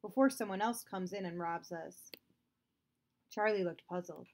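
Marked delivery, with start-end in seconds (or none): 0.0-2.1 firm, commanding father voice; stern order. Acted. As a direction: bark the order at him. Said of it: "Father ordered".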